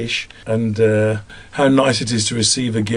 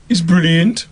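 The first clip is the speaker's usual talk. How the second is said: raised Black Country puppet voice; Black Country accent; 6 semitones higher, 3 dB louder, slower than usual. Shown as a demonstration. Second puppet character agreeing, high Black Country voice. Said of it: "both Big and Small are from the Black Country".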